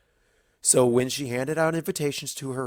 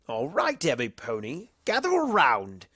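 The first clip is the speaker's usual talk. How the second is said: higher, showy host voice; Discord calling the group; 3 semitones higher than usual. Acted. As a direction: round everyone up with theatrical flair. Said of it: "Discord said".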